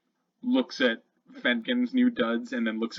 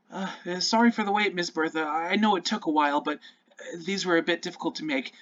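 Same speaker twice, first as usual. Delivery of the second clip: shy goblin; 5 semitones higher, faster than usual. Acted. Goblin cleric at the door.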